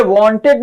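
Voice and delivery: वांटेड ending in a clear "id"; pronunciation demo. Shown as a demonstration. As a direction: sound out वांटेड, "want-id". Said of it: "इसे वांटेड पढ़ा जाता". (वांटेड का अंत "इड" से)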